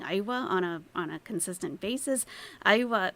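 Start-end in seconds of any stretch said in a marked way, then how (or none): 0.0-0.5 أيوة said as aywa, the Egyptian yes; Egyptian colloquial aywa. Shown as a demonstration. Blogger showing how the guest says yes: relaxed Egyptian أيوة. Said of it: "Arabs outside of Egypt saying". 2.7-3.1 أيوة said louder, stressed, as aywa; Egyptian colloquial aywa. Shown as a demonstration. Explaining the colloquial yes to viewers: stressed أيوة. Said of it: "means yes".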